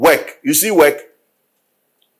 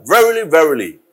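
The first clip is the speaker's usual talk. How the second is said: congregation reciting the verse; reading aloud together. Shown as a demonstration. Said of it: "can we all say it together".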